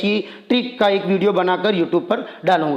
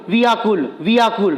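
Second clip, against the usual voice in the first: fast. Shown as a demonstration. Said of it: "plus निकाल कर fast बोलना है".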